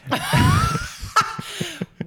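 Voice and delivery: very high shrieking laugh; real high shriek of laughter. Real, not acted. Laughing at her own story.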